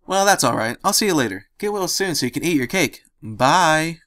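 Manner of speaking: high, bouncy cheerful farewell; perky, sing-song goodbye; bubbly cheerful. Acted.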